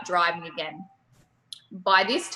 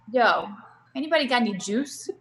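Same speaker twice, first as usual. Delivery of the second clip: sleepy New Yorker asking for juice; New York accent; 2 semitones higher than usual. Retold or imitated. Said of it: "My New York accent".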